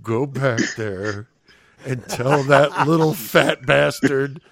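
seething boss holding it in; gritted teeth. Retold or imitated. Stressed boss to cook, slow gritted teeth. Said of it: "with, like, gritted teeth and he goes".

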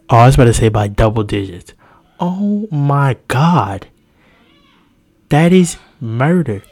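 real loud amazement at the score; excited disbelief. Real, not acted. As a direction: shout the margin like you can't believe it. Reacting to blowout basketball score.

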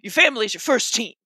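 Mister T. Acted. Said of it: "Mister T says".

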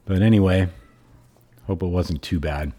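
frog in the throat, hoarse voice; rough, hoarse throat. Real, not acted. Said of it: "real frog in my throat".

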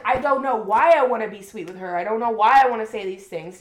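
put-on loud, baffled voice for a smitten boyfriend; a puzzled man in love, loud and baffled; mock lovestruck confusion. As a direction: play him as bewildered by his own sweetness. Acting Declan's confused inner voice.

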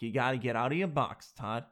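mock New York accent; hammed-up New Yorker, r's dropped; Jen. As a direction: imitate a nagging partner with a light New York accent. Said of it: "sounds like she's from New York".

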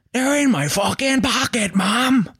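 high, strained scream at mother; high-pitched hysterical mock scream; retold scream. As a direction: scream it an octave up, without real volume. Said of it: "I mean, I screamed it".

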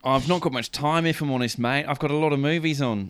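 lightly put-on Kiwi; casual mock New Zealand accent. Peter Jackson declining a role, light New Zealand accent. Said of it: "I love your New Zealand accent".

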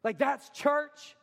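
acted astonished churchgoer, stretching the words; blown away. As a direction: ask it slowly, in amazed disbelief. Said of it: "I want them to be blown away".

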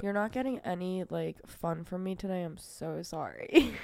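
blocked nose, congested voice; snotty crying. Real, not acted. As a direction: speak through a stuffy nose. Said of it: "my face feels like it's seven thousand pounds".

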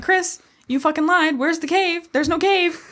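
acted indignant complaint. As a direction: build to a high, mock-outraged wail. Acts out accusing Chris on trail.

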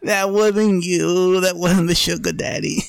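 hammed-up Tyson, drawn out; slow emphatic Tyson. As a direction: drag each word out, pleading. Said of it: "He goes".

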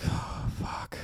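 soft whisper of shock; whispered dismay. Retold or imitated. Twelve-year-old reacting to his crying drunk dad, whispered. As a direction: breathe it out under your breath.

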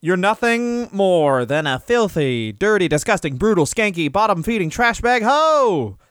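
promo taunt. Acted. Host quoting a wrestler's catchphrase insult, mock promo taunt.

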